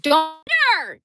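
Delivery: high, loud "don't hit her"; retold yell. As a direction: shout to stop him hitting the dog. Retold scream at husband.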